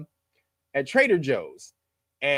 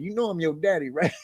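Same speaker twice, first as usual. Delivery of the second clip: teasing through laughter; 3 dB quieter than usual. Retold or imitated. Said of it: "telling Quentin Tarantino".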